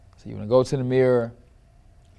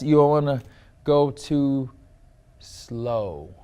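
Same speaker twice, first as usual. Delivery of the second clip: dragging too slow; slower than usual. Shown as a demonstration. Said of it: "Another P is for pacing".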